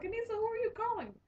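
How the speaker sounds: high, fast, startled asking; puzzled friends call out to Anissa dialing the phone, high and startled; surprised question. Retold or imitated.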